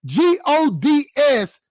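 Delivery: G O D S spelled slowly, letter by letter. Shown as a demonstration. Stressing how she wrote G O D S, letter by letter. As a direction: spell out G O D S deliberately.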